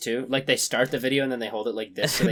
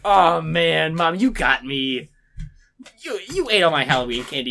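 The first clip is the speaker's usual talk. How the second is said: sarcastic fake delight; 2 semitones higher, 4 dB louder than usual. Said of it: "no kid would ever be like".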